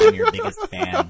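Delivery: very high squeaky nasal voice; nasally fan voice. Shown as a demonstration. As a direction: squeeze it up high through the nose. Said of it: "a lot easier to do nasally voices if you push your Adam's apple up".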